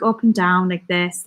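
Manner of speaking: lilting Southern Irish, up and down; Southern Irish accent. Shown as a demonstration. Streamer explaining accent differences to viewers, Southern Irish accent. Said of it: "Southern Irish is a little bit more".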